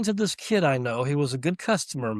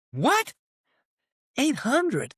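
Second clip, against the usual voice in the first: shocked disbelief; 11 semitones higher, much slower than usual. Retold or imitated. Hearing the cheap rent.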